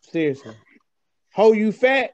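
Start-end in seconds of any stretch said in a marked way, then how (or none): 1.3-2.1 lightly acted teacher calling the register; mock roll call. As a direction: call out a pupil's name, a bit louder. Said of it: "can you imagine roll call at school?".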